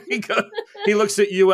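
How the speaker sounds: high, loud laughing gush. Real, not acted. Player laughing about the gruff Khrushchev, high.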